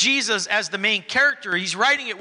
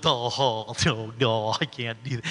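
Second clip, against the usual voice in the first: mock whiny buzzard; 9 semitones lower, 4 dB quieter than usual. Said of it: "We're like Beaky Buzzard".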